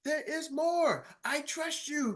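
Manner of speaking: high, soft and slow sales tease; teasing infomercial hush. Pretend. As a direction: draw it out like a late-night ad.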